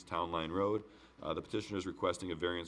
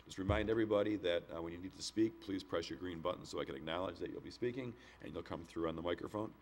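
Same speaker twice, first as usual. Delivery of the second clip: hoarse voice at the end of a cold; sore throat voice. Real, not acted. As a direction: speak through a sore throat. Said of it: "I apologize for my sore throat voice".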